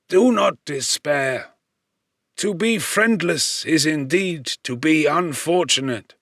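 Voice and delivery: lightly voiced old man soothing a stranger; gentle fatherly reassurance; reassuring old man. A narrator's reading.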